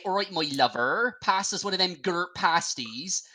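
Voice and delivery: put-on light West Country Bristolian accent; a hint of a Bristol local asking for pasties. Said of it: "a Bristolian say".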